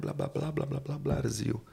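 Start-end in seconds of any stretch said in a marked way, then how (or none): none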